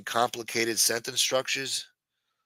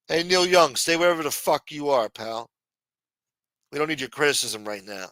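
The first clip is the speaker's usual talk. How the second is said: mock yell at Neil Young; 4 semitones higher than usual.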